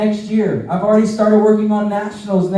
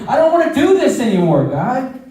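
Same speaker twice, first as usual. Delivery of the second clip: anguished cry to God; 4 semitones higher than usual. Retold or imitated. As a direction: blurt it out to God, at the end of your rope. Cries out to God at lowest point.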